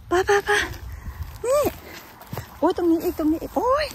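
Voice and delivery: squeaky high-pitched excited chatter. Real, not acted. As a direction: squeal with delight at the find. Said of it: "ทำไมเวลาตื่นเต้นชอบมีเสียงสอง".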